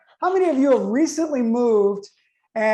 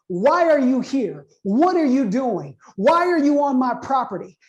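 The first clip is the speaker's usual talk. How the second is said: raised, deliberate mock interrogation; retold yelling; 3 semitones higher than usual. Golf-cart man confronts a lost driver on his property, mock yelling. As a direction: imitate an angry man firing questions, mildly raised. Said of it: "he is yelling at me significantly".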